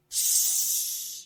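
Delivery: hushed shh; urgent whispered shh; whispered shush. Acted. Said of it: "Why are we whispering?".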